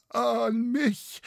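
high, startled question; mild shock, pitched right up; frightened stammer. A narrator's reading. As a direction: caught out and alarmed. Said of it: "stammelte dieser erbleichend".

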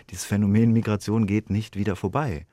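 firm, deliberate stress on Phänomen, as if for all listeners; emphatic declaration. Real, not acted. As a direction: say it out to the whole audience, each word weighted. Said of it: "Das kann man jetzt mal hier so durch den Äther sagen". (nachdrücklich, mit Betonung auf Phänomen)

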